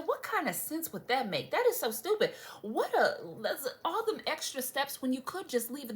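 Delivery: exasperated retort. Retold or imitated. Answering husband's post office theory, exasperated. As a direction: shoot down a silly theory.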